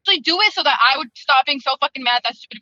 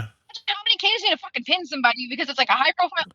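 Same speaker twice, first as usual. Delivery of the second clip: garbled call, fading in and out; robotic dropout; 4 dB quieter than usual. Real, not acted. Caller losing connection to book club, robotic and choppy. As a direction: voice breaking up on a bad connection. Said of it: "Oh, we're losing you".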